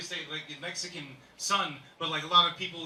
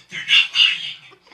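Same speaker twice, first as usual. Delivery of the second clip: laughing; 16 dB louder, much slower than usual. Real, not acted. Laughing punchline.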